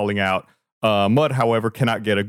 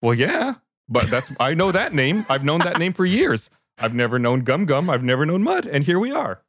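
quick, higher chattering cart owner; Oof rambling fast; 5 semitones higher than usual. Acted. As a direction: babble on like a flustered host.

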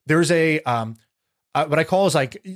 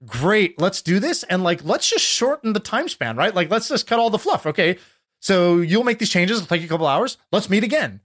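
upbeat brisk mentor; 2 semitones higher than usual. Retold or imitated. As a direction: toss it off like it's no big deal. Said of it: "it's not coming out the same way where it was like".

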